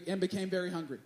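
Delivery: soft, relishing read of "very hungry"; quiet savoring. Shown as a demonstration. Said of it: "I love this phrase".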